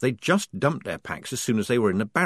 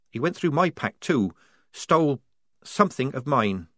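higher, evasive and hurried; higher timid girl; 6 semitones higher than usual. A narrator's reading. Wazza hiding what was stolen, higher and evasive. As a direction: brush off the question.

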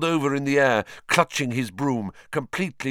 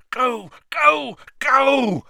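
high urgent cheer; urging; 12 semitones higher, 5 dB louder, much slower than usual. A narrator's reading. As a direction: drive the broom on. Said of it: "Harry urged his broom".

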